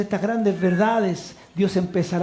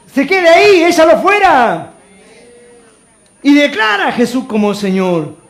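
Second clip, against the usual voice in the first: loud, high pulpit cry; fiery preaching; 4 semitones higher, 7 dB louder than usual. Acted. Pastor urging the congregation to bring family, loud preaching. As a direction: drive the call home to the crowd.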